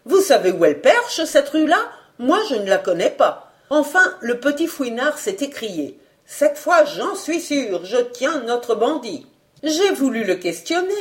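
a hint of a talkative concierge; la vieille Marie-Jeanne. Marie-Jeanne's long tale in her voice. (concierge bavarde légèrement jouée, un peu plus aiguë)

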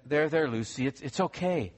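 put-on soothing mother calming her child; a mild, sweet hush for the child; lightly voiced sweet mother. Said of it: "in a sweet tone".

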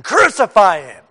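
mock crowd yell. Crowd will be screaming.

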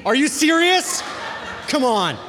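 high, laughing disbelief; can't believe she did that, laugh it out; are you serious, laughing in disbelief; incredulous laugh. Real, not acted. Disbelief at friend's meme.

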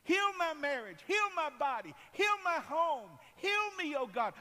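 loud, high shouted prayer; impassioned cry for healing; crying out to God. Acted. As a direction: call out each plea at full force, falling away at the end. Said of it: "I cried to the Lord".

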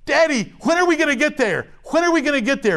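a hint of a nagging child; impatient kid. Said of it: "It's like kids in the back seat".

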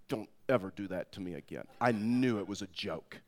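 low, soft retold threat; understated wifely warning; smirking warning. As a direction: drop the voice, cool and controlled. Wife's smirking warning, acted.

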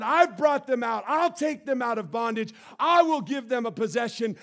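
building proclamation. Acted. God promising to free his people, rising shout. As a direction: build toward the climax.

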